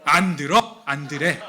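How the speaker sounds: mild mock sibling refusal; stubborn refusal. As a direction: refuse flatly like a kid brother. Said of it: "동생이 뭐라 그래요".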